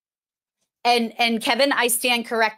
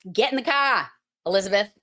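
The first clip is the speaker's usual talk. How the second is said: "car" said "cah" with no R; Boston accent; faster than usual. Shown as a demonstration. Teacher showing the dropped R, Boston accent. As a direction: drop the R in "car", broad Boston. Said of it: "adding A H".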